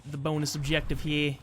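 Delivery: bad attempt at a Brooklyn accent. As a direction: try a Brooklyn accent, half-committed. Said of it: "I can't do a Brooklyn accent".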